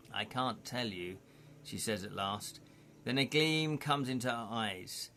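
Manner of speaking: calm storyteller read; story narration. Acted. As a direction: guide the listener through the scene. Reads gamebook scene aloud.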